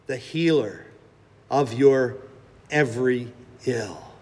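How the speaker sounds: a hint of a gentle, confident Jesus; gentle holy voice. Risen Jesus speaks to everyone, lightly voiced, gentle and holy. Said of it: "he speaks in a gentle, confident, holy voice".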